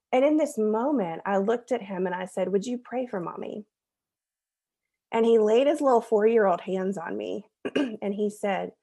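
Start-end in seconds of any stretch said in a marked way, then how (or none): 2.5-3.7 a quiet, gentle ask; softly, almost asking a favor; soft gentle request. Retold or imitated. Mom asking her four-year-old to pray, quietly gentle.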